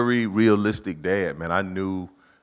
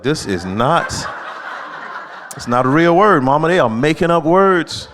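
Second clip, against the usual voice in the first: frustrated protest; 5 semitones higher, 6 dB louder than usual. Retold or imitated. Kid protesting to mother.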